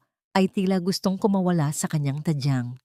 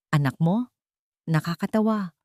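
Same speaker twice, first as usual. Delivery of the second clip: mocking sneer. A narrator's reading. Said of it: "Tumawa ng malakas si Marcos".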